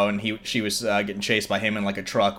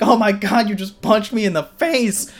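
much higher, louder imitated yelp of pain; mock scream; 11 semitones higher, 5 dB louder than usual. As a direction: retell the shriek of a man just punched. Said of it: "starts screaming".

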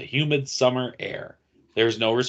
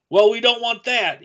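Gomer Pyle voice; 10 semitones higher, 5 dB louder than usual. Acted. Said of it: "Gomer Pyle being us".

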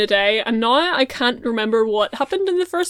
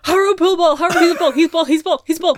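excited; 6 semitones higher, 4 dB louder than usual. Real, not acted. Gleeful chant about Haro.

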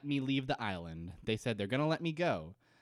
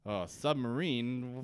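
feigned innocence; much slower than usual. Retold or imitated. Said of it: "Ben voiced in a retold scene".

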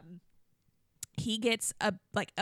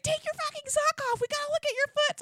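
much higher, urgent order; urgent husband; 3 dB louder than usual. Retold or imitated. Husband checking her foot, higher urgent command. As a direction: order it in a panic. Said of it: "He's like".

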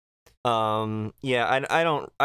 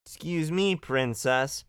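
mock prim voice; 3 semitones higher than usual. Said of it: "Good one".

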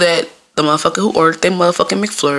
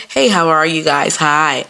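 mock office greeting, lightly put on; slower than usual. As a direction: imitate coworkers' polite hello. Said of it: "that's the voice y'all use 'cause you in the office".

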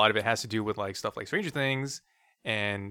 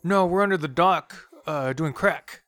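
high, loud jokey brag; mock tough excuse; 7 semitones higher, 6 dB louder, slower than usual. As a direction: toss it off like a delinquent. Joking fake excuse.

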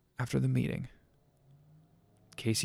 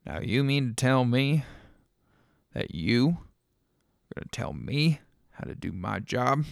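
indignant; 5 dB louder than usual. Acted. Rob confronts Lucia angrily.

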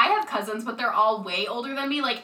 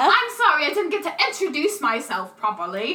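mock British accent; 3 semitones higher than usual. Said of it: "those are very bad British accents".

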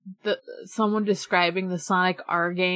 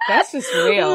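excited shout; 3 dB louder, slower than usual. Real, not acted. Shouting approval at the list.

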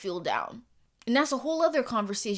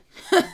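burst of laughter; 8 semitones higher, 9 dB louder than usual. Real, not acted. Laughing at imagined critic.

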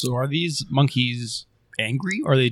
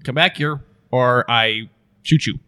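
threatening; 6 dB louder than usual. Acted. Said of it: "and say".

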